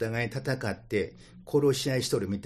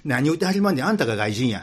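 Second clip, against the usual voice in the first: Kansai retort; 5 dB louder, faster than usual. Retold or imitated. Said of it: "バスに乗っとる人が".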